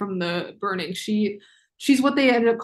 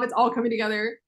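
excited realization. Real, not acted. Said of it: "why I'm acting like that".

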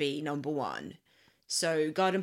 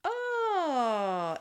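high, long-held "oh"; drawn-out oh; 9 semitones higher than usual. Real, not acted. Reacting to the top song's reveal, drawn-out oh. Reacts to the most played song.

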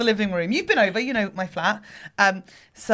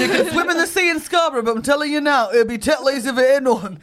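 put-on Yorkshire accent; 4 semitones higher, 4 dB louder than usual. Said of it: "so close to a sentence and indeed an accent".

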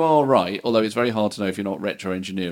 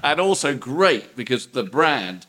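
record boss; 3 dB louder than usual. Pretend. Improv record boss praising band.

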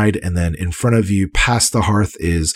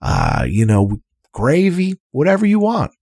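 much higher, eager host voice; jolly innkeeper; 6 semitones higher than usual. Acted. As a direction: fuss over the guests happily. Otik listing the food.

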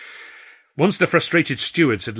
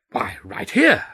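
pitched way up, bright and cocky; cheeky high reveal; 13 semitones higher, 6 dB louder, slower than usual. Acted. Narrator teasing the stewards with a high cocky reveal. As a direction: toss it off high and pleased with yourself.

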